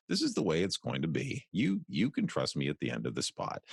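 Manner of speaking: lightly done announcer tag line with a wry touch; ironic trustworthy announcer. Shown as a demonstration. Voice actor closing a restaurant ad, lightly ironic trustworthy announcer. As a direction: reassure like a slightly ironic announcer. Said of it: "slightly ironic yet still trustworthy announcer".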